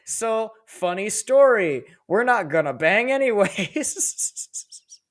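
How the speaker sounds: high, slow, sheepish parody voice; mock awkward reply. Levi answering Petra's dad, high slow awkward voice. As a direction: let him down with exaggerated awkwardness. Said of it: "He's like".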